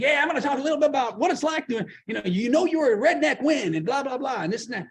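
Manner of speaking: light imitation of a chatty Southern comedian; Southern accent. Comedian who keeps talking, lightly imitated Southern accent. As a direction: ramble on with a Southern twang. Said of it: "it was a Southern accent".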